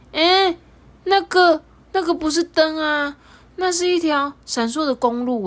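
high, amazed exclaiming. A narrator's reading. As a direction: marvel at the glittering road. Narrator marvels at the lights.

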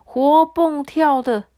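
put-on a friendly ghost telling his old friend the news; kind water ghost. 水鬼对渔夫说话. (讲故事的水鬼角色声)

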